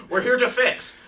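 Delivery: high, loud mock Greek accent; thick Greek accent. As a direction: announce it like a Greek workman, imitated. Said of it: "this really thick Greek accent".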